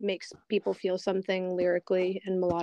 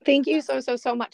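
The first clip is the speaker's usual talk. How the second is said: choked up; 3 semitones higher, 5 dB louder than usual. Real, not acted. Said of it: "Sorry, I'm just, like, choking".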